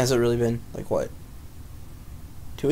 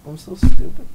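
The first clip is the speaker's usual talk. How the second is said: loud puppet wail; 4 semitones higher, 12 dB louder than usual. Pretend. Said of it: "do a puppet show".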